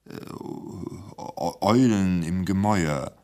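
shy, faltering answer. Acted. Timid editor names his last programme, shyly. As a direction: barely get it out. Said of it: "sagte Krochi schüchtern".

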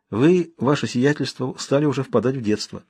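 спокойная медленная ирония; тихо уколоть насмешкой; иронично. Acted. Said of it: "спокойным, ироническим тоном". (спокойно, с иронией)

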